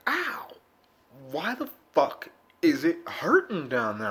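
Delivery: high yelp of pain, then puzzled; yelp, then ask why; retold pained yelp. Walking sore, high pained yelp then complaint. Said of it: "I'm like".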